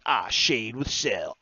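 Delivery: a clumsy Goku impression, dragged out; bad Goku voice. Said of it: "That's not what Goku sounds like".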